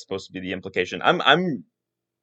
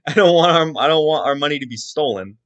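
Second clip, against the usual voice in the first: laughing through a higher, louder mock refusal; mock indignant lord; 5 semitones higher, 6 dB louder than usual. Lord refusing a thief's money, laughing mock outrage. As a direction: ham up the lord's refusal while laughing. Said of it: "a lord's just like".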